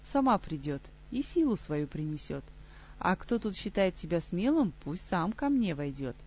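a lightly voiced undead lord; sepulchral voice. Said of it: "глухой замогильный голос".

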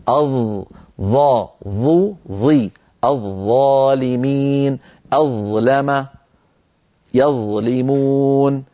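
ظ slowly, tongue tip on upper teeth; slow drill of ظا ظو ظي; zaa demo. Shown as a demonstration. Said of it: "الظاء من طرف اللسان".

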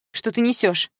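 mother snapping at her daughter; shouting mother. A narrator's reading. Mother yelling at her daughter, upset. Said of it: "закричала мама".

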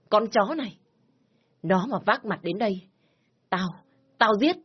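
furious scolding with high outbursts; angry threat. Acted. Father threatening the lover and dismissing his daughter, angry. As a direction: threaten and throw her out.

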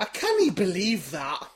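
put-on slow, drawn-out Scottish accent. Host repeats his line to his friend, slow hammed-up Scottish. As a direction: lay on a mock Scottish accent slowly. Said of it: "Why are you doing Scottish?".

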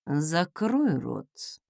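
very slow, quiet order; cold command to his brother. Acted. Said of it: "приказал тот".

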